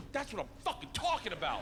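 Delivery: high, punchy retold cheer; emphatic mock-celebration; thrilled approval. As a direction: crow it in delight. Cheers invitation to first class.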